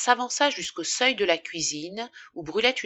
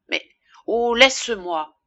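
louder, pleading dismissal; exasperated plea; 4 semitones higher, 6 dB louder than usual. A narrator's reading. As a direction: beg to be left alone. Wife pushes husband's questions away. (supplication excédée)

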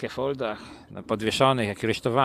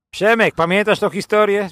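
loud, high call across the room; 10 semitones higher, 12 dB louder than usual. Real, not acted. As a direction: call out to Przemek. Calling out to a friend. (głośne zawołanie)

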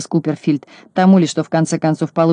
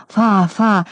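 glad babbling; 4 semitones higher than usual. Acted. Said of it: "обрадованно закивал головой".

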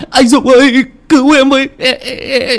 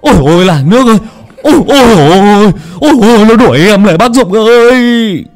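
high, louder, breathless terrified cries; panicked yelling while fleeing; 11 semitones higher, 5 dB louder than usual. Acted. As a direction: howl in terror as something chases you. Tính fleeing in terror from ghost.

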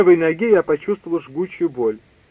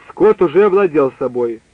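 plain reading voice

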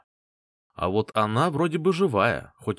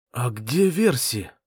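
hoarse; slower than usual. Acted. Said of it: "спросил я хриплым голосом".

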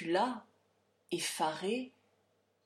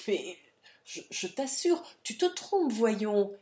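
flustered denial; 3 semitones higher, 6 dB louder than usual. Acted. Father stammers denial.

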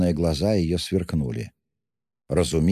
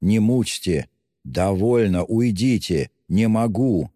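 higher-pitched irritated outburst; acted exasperation, voice raised in pitch; 5 semitones higher, 4 dB louder, slower than usual. A narrator's reading. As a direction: plead to be left alone, exasperated. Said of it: "раздражительно повторял он".

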